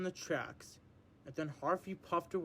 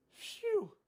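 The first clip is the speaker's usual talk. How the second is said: relieved; 12 semitones higher than usual. Acted. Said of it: "she said thankfully".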